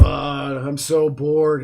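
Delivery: slow, dragged-out bored whine; mock boredom, stretched slow; whiny bored voice. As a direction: drawl it out like you're bored to death. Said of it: "And he's like".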